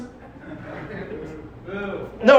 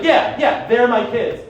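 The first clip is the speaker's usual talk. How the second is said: louder, defiant doubling down; mildly indignant insistence; 3 dB louder, slower than usual. Retold or imitated. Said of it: "I got a little indignant".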